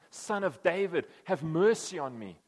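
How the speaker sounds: a blind beggar calling to Jesus from afar, loud and slow. Retold or imitated. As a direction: call across the distance, drawn out. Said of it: "he cries out".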